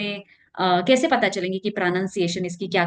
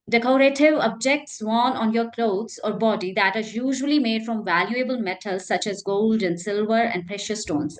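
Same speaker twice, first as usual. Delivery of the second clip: carefully paced reading of a definition; slow dictionary reading; much slower than usual. Acted. Teacher reading a definition to students, slowly. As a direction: read it out slowly for learners.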